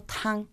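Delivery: "tan" sustained on a level pitch; first tone TAN. Shown as a demonstration. Student shows the first tone, "tan" held level. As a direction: hold "tan" like one sung note. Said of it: "primer tono que es mantenido".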